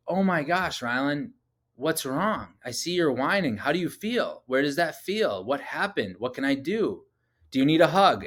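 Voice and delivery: put-on a dad soothing his whining four-year-old; gentle parent.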